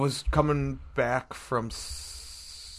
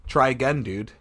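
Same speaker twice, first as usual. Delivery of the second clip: mock curt retort; 5 dB louder than usual. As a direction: Try again, dude, said louder and sharper. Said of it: "and she literally goes".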